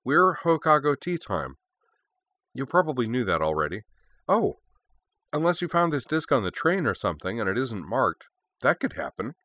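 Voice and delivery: bubbly, airy schoolgirl; scatterbrained high teen voice; high girl voice. Acted. Voicing Yui, airy high girl.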